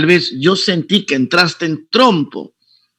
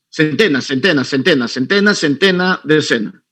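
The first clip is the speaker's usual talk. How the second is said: counting digit places. Shown as a demonstration. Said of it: "tres cifras, tres cifras, dos cifras".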